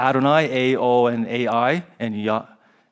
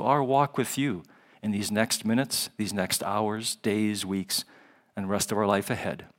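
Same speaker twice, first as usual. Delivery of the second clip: prayer. Real, not acted. Leads the congregation in prayer.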